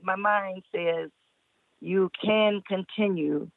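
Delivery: deliberate, measured poem reading; poetry recital. Acted. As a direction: declaim it phrase by phrase with weighty pauses.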